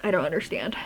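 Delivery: softly whispered, baffled. Real, not acted. Vlogger to viewers, baffled by the book, whispering. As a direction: breathe it out under your breath. Bewildered repeat, then whispered.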